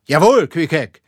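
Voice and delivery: high, loud, rousing captain; excited captain's proclamation; fervent confirmation. A narrator's reading. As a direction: confirm each point with mounting fervour. Ahab excitedly confirming the crew's descriptions.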